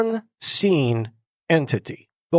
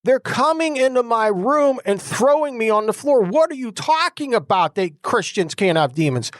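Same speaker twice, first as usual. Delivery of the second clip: exasperated protest; 5 semitones higher than usual. Retold or imitated. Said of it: "I'm like".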